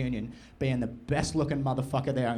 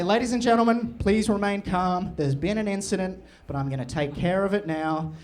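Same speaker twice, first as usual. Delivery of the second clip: calm announcer; 3 semitones higher than usual. Pretend. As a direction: reassure the crowd like a host. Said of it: "I'll say".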